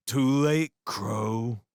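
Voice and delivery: loud hammed-up drunk snarl; mock snarl. A narrator's reading. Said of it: "he snarled".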